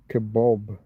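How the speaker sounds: "Kebab" as kuh-BOB; North American pronunciation. Shown as a demonstration. Streamer demonstrating the North American thing, kuh-BOB pronunciation. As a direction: say "Kebab" to rhyme with job. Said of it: "that's a North American thing".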